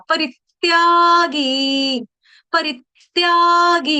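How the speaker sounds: परित्यागी slow, short री with a stress on it. Shown as a demonstration. Teacher drilling the stress on री for students, slowly. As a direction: hit the री in परित्यागी. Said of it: "री के ऊपर आघात".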